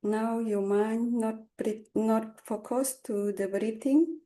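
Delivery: calm unhurried meditation guidance; guided meditation. Acted. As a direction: lead them gently with long pauses. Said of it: "I will start Togai meditation".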